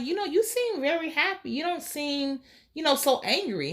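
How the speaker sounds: a hint of another woman's voice; acted gentle remark. Voices Aubrey chatting sweetly to Dexter.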